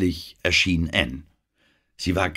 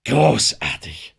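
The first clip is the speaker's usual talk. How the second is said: calling out; 5 semitones higher, 5 dB louder, slower than usual. Acted. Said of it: "rief Denham".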